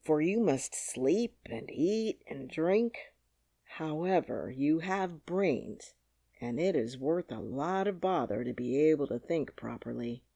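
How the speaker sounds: a lightly voiced scarecrow pondering aloud; gentle, deliberate musing; thoughtful Scarecrow.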